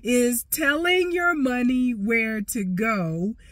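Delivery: measured, slow quote; slow, deliberate. Real, not acted. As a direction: spell out the definition slowly. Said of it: "brain fog today".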